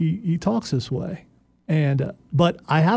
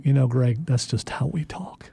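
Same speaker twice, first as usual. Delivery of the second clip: lightly mocking condescension, trailing off softer; condescending; 3 semitones lower, 4 dB quieter than usual. Co-host imitating soccer fans talking down to Greg, condescendingly. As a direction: imitate someone patiently talking down. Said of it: "a condescending tone".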